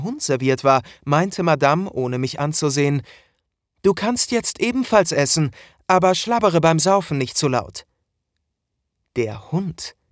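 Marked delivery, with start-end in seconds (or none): 3.8-7.9 mocking mistress. Mistress mocks the servant.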